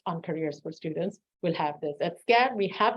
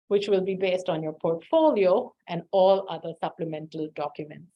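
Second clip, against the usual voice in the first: out of breath; 3 semitones lower than usual. Real, not acted. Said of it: "I'm a little out of breath".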